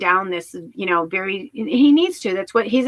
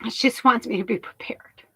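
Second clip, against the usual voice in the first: hushed whisper; 2 semitones higher than usual. Real, not acted. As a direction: breathe it out barely audible. Emotional aside after pause.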